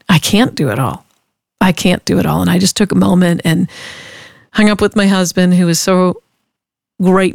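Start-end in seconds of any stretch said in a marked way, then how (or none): 0.1-2.4 calm realization. Retold or imitated. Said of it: "Ooh, that's right".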